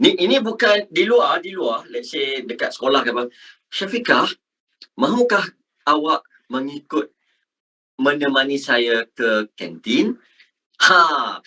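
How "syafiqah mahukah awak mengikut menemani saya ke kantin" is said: careful, measured textbook Malay; formal Malay speech. Shown as a demonstration. Teacher models inviting a friend to the canteen, formal Malay. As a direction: ask it formally, phrase by phrase. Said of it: "if you talk like that".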